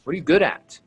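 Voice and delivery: bright, high, curious questions; upbeat demo question. Shown as a demonstration. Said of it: "That's how I would say it".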